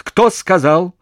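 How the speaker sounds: high, loud snap of a question; startled demand. A narrator's reading. Commander rounds on the ranks, loud and startled. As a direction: rear up and demand who spoke. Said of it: "вновь встрепенулся Харченко".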